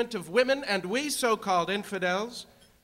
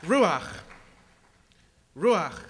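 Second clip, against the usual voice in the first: booming word; 5 semitones higher, 13 dB louder than usual. Real, not acted. Booming repeated Hebrew word.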